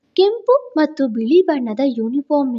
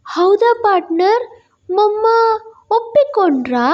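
put-on higher, hopeful child voice; eager little boy; 7 semitones higher than usual. A narrator's reading. Small boy asking his friend if mum agreed, higher and eager. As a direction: ask like a small boy who can't believe it.

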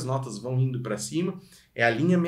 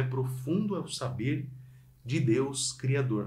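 1 soft spoken phrase; 4 semitones lower, 6 dB quieter than usual. Shown as a demonstration. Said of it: "é uma coisa bonita".

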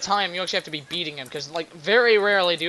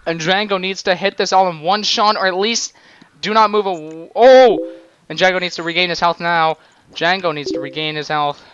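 emphatic wrestling commentary; live play-by-play; 6 dB louder than usual. Pretend. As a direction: call what the fighter must do to survive. Play-by-play of game.

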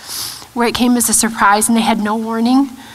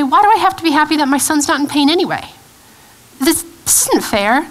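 mild, higher-pitched questioning protest; angry protest; 4 semitones higher than usual. Retold or imitated. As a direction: let a touch of grieving anger into it. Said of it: "it's okay to feel angry".

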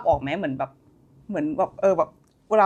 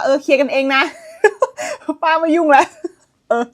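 laughing through a quote; 3 semitones higher than usual. Real, not acted. Laughing while quoting aunt.

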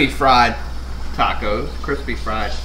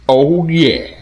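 excited; 3 semitones higher, 6 dB louder than usual. Real, not acted. Savoring the taco.

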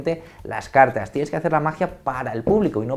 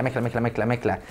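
mumbled; 2 semitones lower, 5 dB quieter than usual. Shown as a demonstration. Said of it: "no vocalizar".

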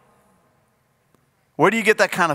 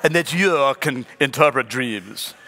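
laughing Pharaoh; 5 semitones lower than usual. Acted. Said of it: "I'm sure he says it with a British accent".

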